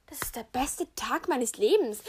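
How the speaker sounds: bursting with joy but not yet shouting; happy exclaim. Real, not acted. Joy at moving to farm.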